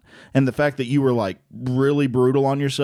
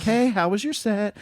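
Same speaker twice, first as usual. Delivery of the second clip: higher, sweet friendly greeting; super nice; 8 semitones higher than usual. Retold or imitated. Wife calling her husband after his set, imitated super-nice voice. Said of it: "super nice to him".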